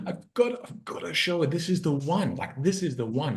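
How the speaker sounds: high, pleading insecure voice; insecure inner voice. Retold or imitated. His insecure half urging him on the date, high and pleading. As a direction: beg like the needy part of yourself. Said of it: "the part of me that just wants to be loved".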